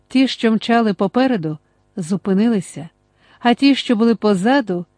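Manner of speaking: plain reading voice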